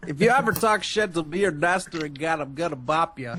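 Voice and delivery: Bill Cosby impression. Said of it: "a little bit of Bill Cosby in there".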